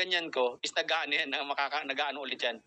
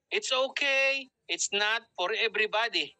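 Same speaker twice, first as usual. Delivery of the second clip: unbothered reply; 3 semitones higher, slower than usual. Shown as a demonstration. Coach answering an angry boyfriend, slow and unbothered. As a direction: stretch it out, airily unbothered.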